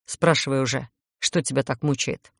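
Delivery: low, grumbling vampire; grumpy vampire. Acted. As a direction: grumble it at the witch. Grumpy vampire voiced by narrator.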